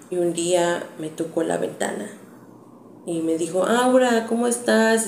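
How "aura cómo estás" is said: higher, sing-song fake-friendly greeting; butter her up sweetly; sugary neighbor. Neighbor tapping the window to win the girl back, sugary.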